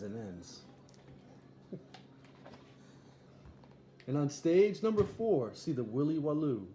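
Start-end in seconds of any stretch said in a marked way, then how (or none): 4.1-6.7 ringmaster announcement. Acted. Ringmaster announcing the next act.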